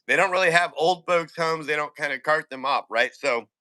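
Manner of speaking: talking while crunching chips; words round a mouthful of snacks; munching chips. Real, not acted. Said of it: "excuse me, I'm munching chips and peanuts here".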